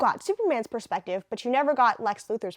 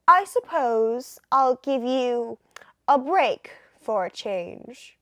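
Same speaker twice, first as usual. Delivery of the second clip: put-on British accent; 4 dB louder, much slower than usual. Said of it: "I made Lois Lane kinda British".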